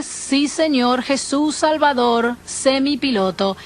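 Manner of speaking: slow, soothed answer to God; surrendering prayer. Retold or imitated. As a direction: let it settle slowly into prayer. (oración lenta y serena)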